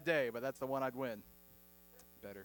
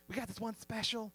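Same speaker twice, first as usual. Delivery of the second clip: overexcited Southern waitress; 4 dB quieter than usual. Acted. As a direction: sell the special with syrupy Southern delight. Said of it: "just way too excited about the meal".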